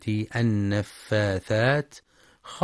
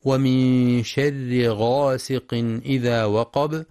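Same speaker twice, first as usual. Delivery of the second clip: slow tajweed chant; Quran recitation; slower than usual. Shown as a demonstration. Teacher reciting the verse, slow chant. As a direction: recite slowly and clearly.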